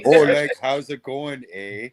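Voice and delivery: over-the-top "how's it going, eh"; mock Canadian accent. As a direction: play the dopey Canadian buddy. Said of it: "even Geddy Canadian".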